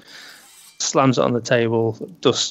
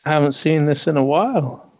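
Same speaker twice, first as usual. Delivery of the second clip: gnome shopkeeper; 5 semitones higher than usual. Acted. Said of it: "So he goes".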